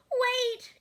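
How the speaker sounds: high, loud call to stop; sheep crying out. A narrator's reading. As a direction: cry out desperately after the tractor. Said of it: "cried Sheep".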